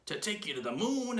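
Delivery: high, emphatic echo swooping up on moon; Mr. Twit exclaiming. A narrator's reading. Husband echoing wife's words, high exclamation. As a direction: exclaim in mock astonishment, stretching the last word. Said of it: "exclaimed Mister Twit".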